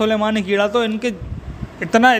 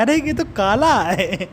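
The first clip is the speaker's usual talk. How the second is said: mock surprise; slower than usual. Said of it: "देख के चौंक गया".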